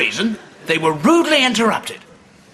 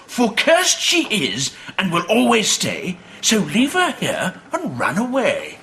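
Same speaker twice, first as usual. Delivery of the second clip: ominous reading; slower than usual. Acted. Reading the cursed note.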